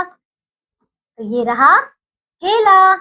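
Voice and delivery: केला stretched very slowly, each syllable held; slow teacher's reveal of केला; drawn out reveal. Shown as a demonstration. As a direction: draw out केला slowly for the children. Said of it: "तो के जमा ला".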